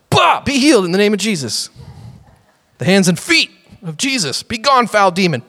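hammed-up healer with karate cries; mock exorcism. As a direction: pretend to kick out a demon. Mock kicking demons out of people.

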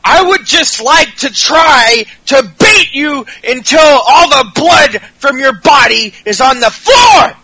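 mock unhinged rage at the heel; losing it. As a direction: ramp up like he's about to snap. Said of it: "he's just fucking losing it".

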